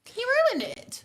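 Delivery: whispered aside. Real, not acted. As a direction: whisper it to the listeners.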